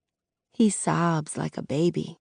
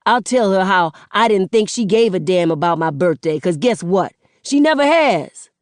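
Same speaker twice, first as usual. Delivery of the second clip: bitter accusation; 2 semitones higher, 4 dB louder than usual. Acted. Son accusing mother.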